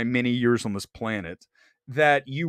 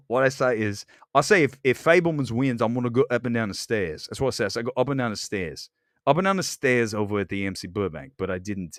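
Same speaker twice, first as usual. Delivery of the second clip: lower, rough Brooklyn-ish put-on accent; accent veering into Brooklyn; 4 semitones lower, faster than usual. Streamer explaining his stairs bet, botched accent drifting into Brooklyn. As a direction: keep up a bad accent as it slips toward Brooklyn. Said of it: "now it's veering into some kinda, like, Brooklyn thing".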